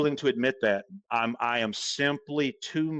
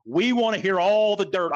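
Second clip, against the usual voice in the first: mocking nosy media; 6 semitones higher, 5 dB louder than usual. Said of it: "the media was circling like sharks".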